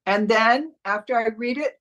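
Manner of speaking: ordinary talk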